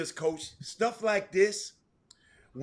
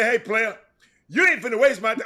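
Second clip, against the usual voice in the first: loud, higher-pitched challenge to a player; Mike Davis; 4 semitones higher, 8 dB louder than usual. Retold or imitated. Coach confronting a player, loud Mike Davis act. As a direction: lay down the law at full volume. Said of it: "I do the Mike Davis".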